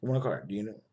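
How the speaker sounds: a hammed-up pushy seller calling his relatives; mock pushy pitch to family. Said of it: "I'm not gonna call my family and go".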